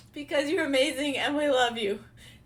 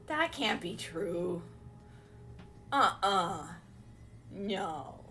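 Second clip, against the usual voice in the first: whispered disbelief; 5 semitones lower, 4 dB quieter, much slower than usual. Real, not acted. Disbelief at gifts.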